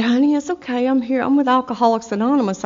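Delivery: retold reassurance. Retold man comforts her as she cries.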